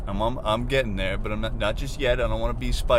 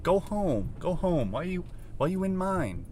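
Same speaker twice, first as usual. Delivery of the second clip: high, whiny mock complaint; acted exasperated pleading; annoyed; 8 semitones higher, 3 dB quieter than usual. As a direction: whine at an unwelcome bug to leave. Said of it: "now I just get annoyed".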